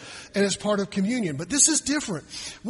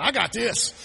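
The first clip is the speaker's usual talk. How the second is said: self-confident boast; 3 semitones higher, 4 dB louder than usual. Retold or imitated. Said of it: "That's their mindset".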